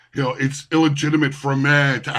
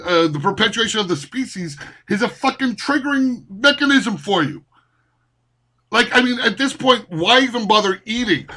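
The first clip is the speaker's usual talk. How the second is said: higher-pitched, rising outrage; heated rant; 5 semitones higher than usual. Real, not acted. Ranting at commenters about reproduction, incredulous rising anger. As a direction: work yourself up, incredulous and furious.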